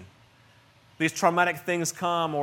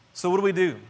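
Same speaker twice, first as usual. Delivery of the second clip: loud rhetorical question; 3 semitones higher, 6 dB louder, faster than usual. Acted. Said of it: "repeated question".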